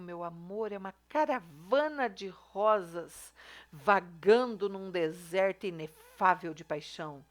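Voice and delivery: slow, drawn-out, over-the-top declamation of love; mock romantic recital. Shown as a demonstration. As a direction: ham up the flowery love line, slowly. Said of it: "olha o exagero aqui". (declamação romântica exagerada e lenta)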